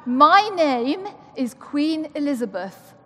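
mild royal accent; Queen accent. Shown as a demonstration. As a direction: lightly play the Queen greeting her subjects. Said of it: "I'll do my Queen accent now".

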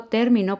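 término with weight on TÉR; stress on first syllable. Shown as a demonstration. Teacher giving the noun for contrast, término stressed on TÉR. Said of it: "no lleva acento".

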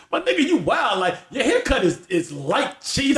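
high-pitched indignant retelling, drawing out the last words; mock exasperation. Friend mocking his pal's simple haircut, exasperated. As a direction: imitate a mad friend, amused. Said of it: "Doc got so mad".

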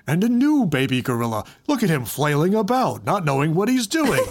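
hushed nature documentary narrator; David Attenborough voice. Retold or imitated. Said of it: "like one of those classic David Attenborough ones".

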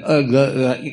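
stuck, stammering syllables; tongue-tied. Retold or imitated. Man faced with stunning Sharon Stone, tongue-tied. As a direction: act out words failing to come out. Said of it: "He's all tongue-tied".

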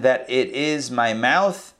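slow, drawn-out reading with weight on "mouth"; slow emphatic reading. Shown as a demonstration. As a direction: lean into "mouth" and stretch the phrase. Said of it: "or that".

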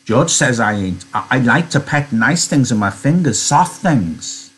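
mildly earnest, halting explanation. Acted. Lenny explaining what he likes to pet, earnest. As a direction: explain simply, with a touch of eagerness. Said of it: "Lenny explained earnestly".

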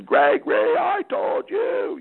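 sudden high shout at the son; imitating yelling dad. Dad yelling at his son in the garage, mock shout. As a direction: bellow it like a fed-up dad losing it. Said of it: "Some dads would start yelling and screaming".

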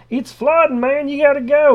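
high, loud hammed-up rescuer; mock emergency warning; urgent rescuer. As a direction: hurry him out of the house. Rescuers in the flood joke.

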